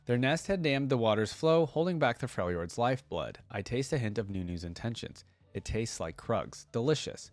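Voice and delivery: storyteller's reading voice, even and unhurried; reading a story to viewers; story narration. A narrator's reading. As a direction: read it like a bedtime tale. Reads interactive story aloud.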